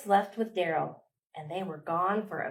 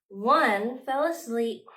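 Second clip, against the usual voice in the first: gasped surprise; 3 semitones higher, slower than usual. Acted. Gasp before line.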